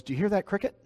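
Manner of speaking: high-pitched, curious question as the missionary; eager question. Acted. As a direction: ask it high, ears pricked. Missionary voiced in story asks businessman.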